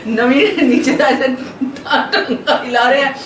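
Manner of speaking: slow words broken by giggles; still laughing. Real, not acted. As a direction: talk while the giggle lingers. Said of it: "मेरे को अभी बहुत हंसी आ रही".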